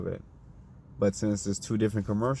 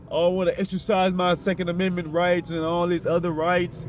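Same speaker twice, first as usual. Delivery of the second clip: mock yell; 5 semitones higher than usual. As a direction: ham up a voter demanding his rights. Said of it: "you yell".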